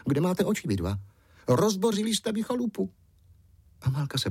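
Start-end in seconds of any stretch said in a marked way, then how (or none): 0.1-2.9 high cross little goblin; high, squeaky, grumpy forest imp. A narrator's reading. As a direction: squeak it out, offended. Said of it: "štířivý hlásek".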